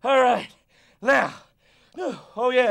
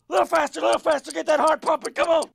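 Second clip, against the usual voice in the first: urging shout; 3 semitones higher, 5 dB louder, much faster than usual. Acted. Urging a faster pace.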